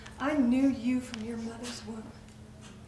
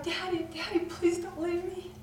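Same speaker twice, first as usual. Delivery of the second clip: put-on child's cry; 7 semitones higher than usual. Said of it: "and you cried".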